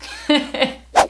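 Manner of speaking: short voiceless laugh; breathy chuckle. Real, not acted. Vlogger after telling Mexico it ruined them, breathy chuckle.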